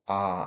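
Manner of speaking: Ah held long with a very open mouth; open vowel. Shown as a demonstration. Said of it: "very open".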